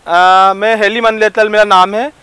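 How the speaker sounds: a comic lisping rapper chatting up madam. Acted. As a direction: lisp every s and r like a cute totla guy. (तोतला रैपर)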